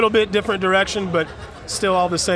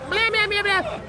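mocking blah blah. Mocking nagging ex-girlfriend.

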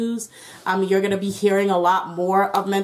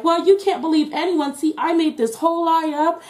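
smug liar; 8 semitones higher than usual. Retold or imitated.

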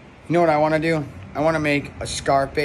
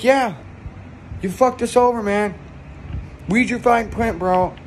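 mock gloating hitman; 7 semitones higher than usual. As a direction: rub his nose in it.

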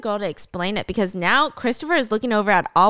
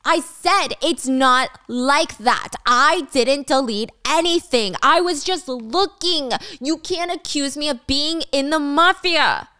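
higher, slow emphatic protest; indignant, drawn-out half-yell; beginning to yell; 4 semitones higher, slower than usual. Acted. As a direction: start raising the voice, word by word. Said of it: "beginning to yell at this point".

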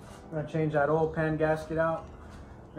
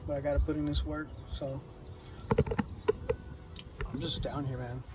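low-energy mumble; 5 dB quieter than usual. Real, not acted. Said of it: "It's cold as fuck a little bit".

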